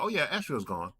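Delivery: casual uncle impression, pitched high; easygoing high-voiced uncle; uncle's tone. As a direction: report it lightly, imitating your uncle. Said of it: "The tone I'm giving you".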